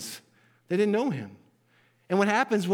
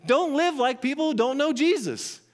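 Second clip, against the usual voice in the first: emphatic command; 6 semitones higher than usual. Acted. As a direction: hammer home the warning, punch "live". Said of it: "It's, it's emphatic when he says".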